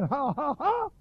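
lighter ha-ha-ha, jumping high at the end; imitated pulpit ha, not shouted; imitated preaching "ha". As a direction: mimic the preacher's ha's without full force. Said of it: "all he's doing is saying".

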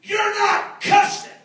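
high, slow, incredulous statement; drawn-out amazement, acted out; astonished. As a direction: spell it out in disbelief. Young man's astonishment, retold.

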